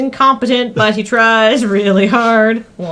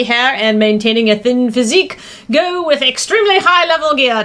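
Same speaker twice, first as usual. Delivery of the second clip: hammed-up movie trailer narrator; trailer announcer voice. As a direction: sell it like a cheesy trailer.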